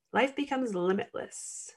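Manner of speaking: hushed emphatic repeat; soft echo. Real, not acted. Quiet echo of the phrase.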